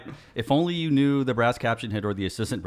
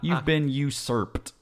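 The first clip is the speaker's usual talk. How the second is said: laughing mock outrage; 3 semitones higher, 6 dB louder than usual.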